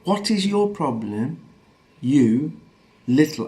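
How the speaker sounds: slow, deliberate mock confrontation; quoted insult, word by word. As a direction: spell out the insult slowly. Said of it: "the exact words he said to me".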